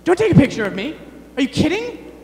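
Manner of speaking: high, loud whiny refusal; mock protest. Partygoer dodging a camera, in a high, loud mock whine. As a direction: play the camera-shy partygoer, hammed-up. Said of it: "People are like".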